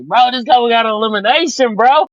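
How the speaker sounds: root for the underdog out loud; excited cheer. Retold or imitated. Retelling his reaction to a surprise elimination, hyped cheer.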